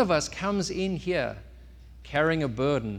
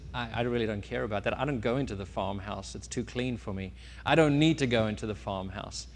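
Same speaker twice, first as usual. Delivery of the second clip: softer, lower dismissive reply; indifferent pig; 3 semitones lower, 4 dB quieter than usual. Acted. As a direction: wave it away, not bothered. Pig refuses to care.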